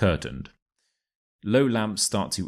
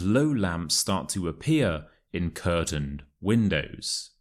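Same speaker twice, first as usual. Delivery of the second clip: model reading. Shown as a demonstration. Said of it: "reading this together at the same time".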